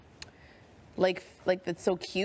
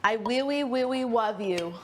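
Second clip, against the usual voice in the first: put-on baby talk. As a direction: coo it with a babyish lisp. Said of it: "That's exactly how we say it".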